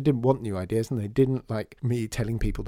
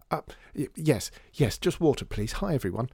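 nervous stammer; 3 semitones higher than usual. Acted. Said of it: "looked round nervously".

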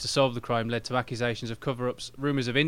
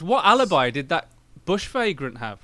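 louder, higher, laughing outrage; laughing indignant question; 4 semitones higher, 4 dB louder than usual. Real, not acted. Asking the hosts, laughing and mock indignant. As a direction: demand it through laughter.

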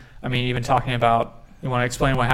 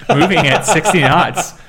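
louder, laughing math word problem voice; science teacher voice; 2 semitones higher, 7 dB louder than usual. Pretend. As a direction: read it like a textbook word problem. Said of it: "why am I speaking like a science teacher?".

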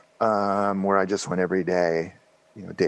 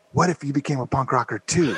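laughing question; 5 semitones higher, faster than usual. Retold or imitated. Friend's retold tempting question.

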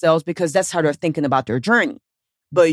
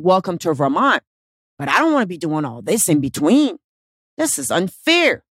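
whiny victim. Retold or imitated. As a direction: whine it like a sulking victim, peaking on "unfair". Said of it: "you're in victim mode".

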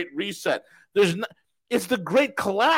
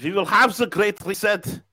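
put-on Arnold accent. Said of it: "and now I sound like Arnold".

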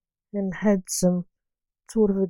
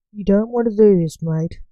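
knowing warning; 4 dB louder than usual. Acted. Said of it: "warned Lance knowingly".

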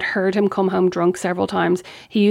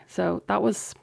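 whispered; 7 dB quieter, slower than usual. Real, not acted. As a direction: confide it in a whisper. Whispered aside on breakup.

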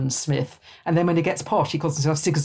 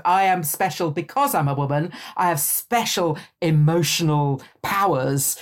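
mock Margery Kempe. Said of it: "Margery Kempe does that a lot".

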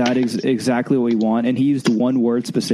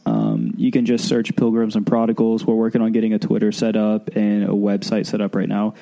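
blocked nose from sinuses; stuffy nose. Real, not acted. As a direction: talk through a stuffed-up nose. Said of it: "if I sound kind of stuffy right now".

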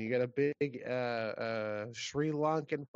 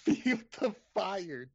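slow, higher movie-title announcer voice; dramatic movie trailer voice; 5 semitones higher, 3 dB louder, slower than usual. Acted. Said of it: "That's so good".

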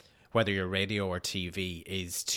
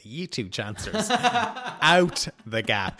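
mock boss ordering out; 8 semitones higher, 7 dB louder, slower than usual. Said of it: "tap us on the shoulder and say".

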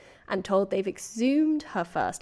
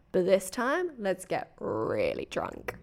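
mock coaxing; 7 dB quieter, slower than usual. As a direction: draw it out as a dodgy party suggestion. Acted mother coaxing daughter to drink.

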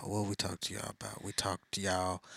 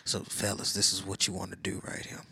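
smooth Mac Daddy voice. Shown as a demonstration. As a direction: talk it smooth and hushed. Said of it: "adopt this voice".

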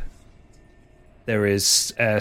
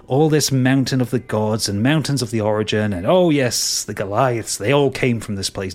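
mocking scorn; 2 semitones higher, 4 dB louder than usual. Villain mocks priests' lore.

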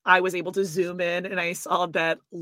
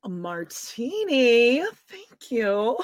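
playful put-on drawl; 4 semitones higher, much slower than usual. Playful imitation after praising a voice.

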